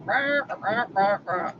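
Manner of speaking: droning nonsense wah-wah, falling off; Charlie Brown's teacher. Retold or imitated. What she hears when brother nags, mock droning. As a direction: mimic a cartoon teacher's muffled blah. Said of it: "or his teacher".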